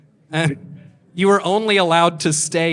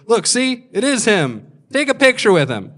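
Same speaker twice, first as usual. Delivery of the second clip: excited dad; 8 semitones higher, 5 dB louder than usual. Retold or imitated. Excited dad voiced to his kid.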